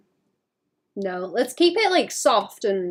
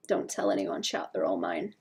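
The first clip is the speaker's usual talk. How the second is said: low, hushed hoarding voice; guard the berries like a miser; greedy secret; 8 dB quieter than usual. Pretend. Streamer telling chat the berries are hers.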